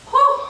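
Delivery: sharp high breathy whew; high exhale whew. Real, not acted. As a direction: blow out after the effort. Exhale after hard set.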